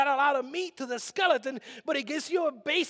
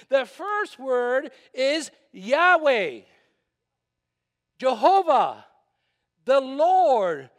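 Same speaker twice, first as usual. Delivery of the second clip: slow, loud, higher proclamation; preaching; 4 semitones higher, 5 dB louder, slower than usual. Acted. Pastor proclaiming Jesus is Yahweh to the congregation, slow and loud. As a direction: hammer each declaration home.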